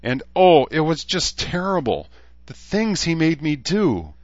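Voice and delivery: high, overwrought unicorn voice; tearful unicorn cry. A narrator's reading. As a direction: wail it in a high squeak. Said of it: "the unicorn cried, her eyes brimming with tears".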